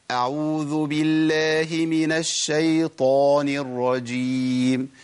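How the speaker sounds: very slow chanted أعوذ بالله with a full heavy ط in الشيطان; slow recitation. Shown as a demonstration. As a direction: draw out the isti'adha in a recitation tune. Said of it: "أما أقول". (تلاوة بطيئة جدا بطاء مفخمة)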